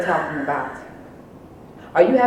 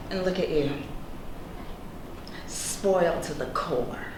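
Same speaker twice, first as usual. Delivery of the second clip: cold contempt; 3 semitones lower, 4 dB quieter than usual. Acted. Cold cutting insult.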